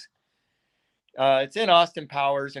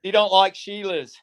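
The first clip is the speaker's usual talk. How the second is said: mock bogan Aussie accent; 4 semitones higher than usual. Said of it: "give me your best, uh, Aussie accent".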